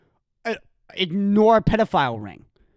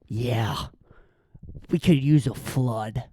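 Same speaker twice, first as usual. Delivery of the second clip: lowered mock Texan; 10 semitones lower, 6 dB quieter than usual.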